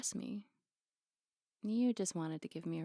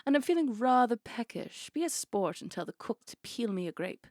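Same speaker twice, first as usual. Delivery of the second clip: mock pampered diva; 4 semitones higher, 7 dB louder than usual. Mock demands of a pampered star.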